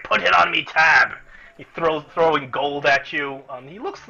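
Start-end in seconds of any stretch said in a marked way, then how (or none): 0.0-1.1 louder, higher, jolly dwarf; carelessly generous. Acted. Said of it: "And he's just like".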